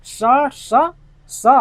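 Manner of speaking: क्या होगा, then स स स; स drill. Shown as a demonstration. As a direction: call out each स. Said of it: "क्या होगा".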